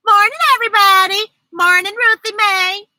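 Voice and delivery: high, fast, sugary greeting; sweetly nice. A narrator's reading. Libby greeting her friend all nice. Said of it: "She spoke all nice".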